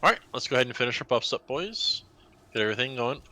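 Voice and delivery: upbeat, quick, rising call to the team; rallying call. Real, not acted. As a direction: hype the raid group. Raid leader rallying the team.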